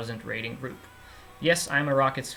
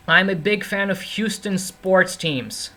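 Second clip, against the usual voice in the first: slow Texas drawl with long vowels; Texas accent; 6 semitones higher, 5 dB louder, slower than usual. Shown as a demonstration. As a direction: lengthen the vowels like a Texan. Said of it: "I can actually talk like a Texan sometimes".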